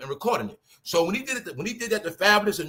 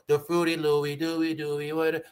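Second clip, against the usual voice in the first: lightly voiced rapper, on an even monotone; a hint of a rapper's sing-song patter; slower than usual. Showing listeners how a rapper talks, lightly imitated. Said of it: "How he talk?".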